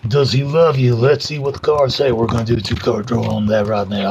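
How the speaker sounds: mild mystic reader, lightly put on; a touch of tarot reader showmanship; fortune teller voice. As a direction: play a hint of a psychic hosting a reading. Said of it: "I don't know why I'm talking like this".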